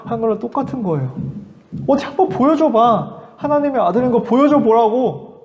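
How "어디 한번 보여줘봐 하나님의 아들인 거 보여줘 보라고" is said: higher, jeering dare; a mild mock taunt from the priests. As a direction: sneer at him to prove it. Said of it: "비웃는 거예요".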